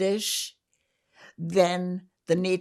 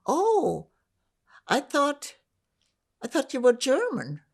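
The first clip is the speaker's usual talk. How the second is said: higher, louder mock surprise, imitating others; surprised quote; 7 semitones higher, 4 dB louder than usual. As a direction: act out their puzzled "Oh", pitched up. Quoting people who found out.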